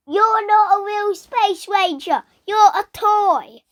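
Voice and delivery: high, loud mock scream; Woody screaming. Retelling Woody screaming in Buzz's face, high mock yell. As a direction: yell it in his face, drawing out the last words. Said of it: "Woody screams in his face".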